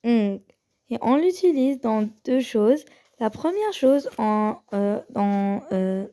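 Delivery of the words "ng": "ng" as a nasal hum with no vowel; teacher modelling the sound "ng"; ng sound demo. Shown as a demonstration. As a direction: hum "ng" at the back of the nose. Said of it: "elle se prononce ng".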